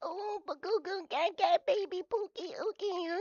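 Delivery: put-on high cooing baby babble; squeaky high goo-goo gaga baby voice; mock baby talk. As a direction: coo like a grown man playing baby. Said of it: "him being a baby on voice".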